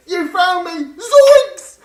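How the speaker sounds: high, loud caught-out yelp; startled cry. Acted. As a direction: shriek at being found. Caught by the reaper.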